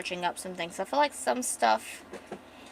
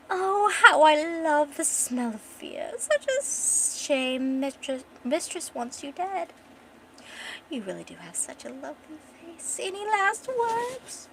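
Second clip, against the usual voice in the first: gloating villain; 7 semitones higher than usual. Acted. Assassin holds a dagger to her throat, gloating menace. Mad assassin taunting his victim.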